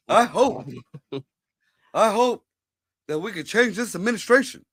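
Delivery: a hint of Obama's speech cadence; Obama impression. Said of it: "I've been working on my Obama voice".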